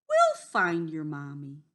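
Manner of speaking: low, hearty comfort; reassuring wolf. A narrator's reading. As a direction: reassure a tearful little one. Wolf comforts the crying duckling.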